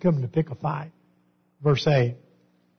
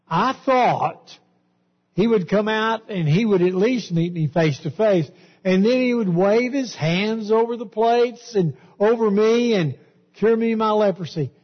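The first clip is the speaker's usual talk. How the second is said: higher, aggrieved voice of the proud general; indignant Naaman; 5 semitones higher than usual. Retold or imitated. Preacher voicing Naaman's wounded pride, indignant and higher. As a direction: complain as the snubbed commander.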